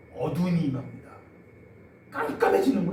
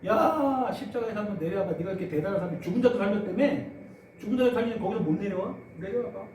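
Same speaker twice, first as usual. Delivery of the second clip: higher, sneering taunt; jeering taunt; 4 semitones higher, 3 dB louder than usual. Retold or imitated. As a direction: dare him to come down. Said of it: "희적대고 있어요".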